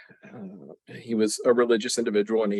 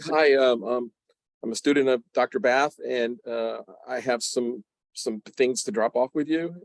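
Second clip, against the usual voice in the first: nervous; 4 semitones higher than usual. Retold or imitated. Terrified student answering the mortuary man.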